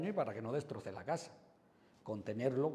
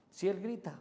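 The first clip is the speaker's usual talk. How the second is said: put-on raised, louder and higher for the shouting child; he shouts; 7 semitones higher, 4 dB louder than usual. Shown as a demonstration. Demonstrating to parents how the kid shouts, loud and high. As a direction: say it like the child yelling. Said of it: "tú hablas más bajo".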